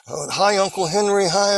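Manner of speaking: high-pitched mock greeting of a loved uncle; delighted greeting. Voiced greeting on arriving in paradise.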